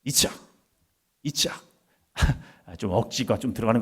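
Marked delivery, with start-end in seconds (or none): 0.0-0.4 이츠하크 run together quickly; quicker. Shown as a demonstration. Preacher drilling a Hebrew word with the congregation, quicker. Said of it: "좀 더 빠르게요". 1.2-1.7 이츠하크 said fast and run together; quicker. Shown as a demonstration. Preacher speeding up a Hebrew word for the congregation, quicker. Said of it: "좀 더 빠르게요".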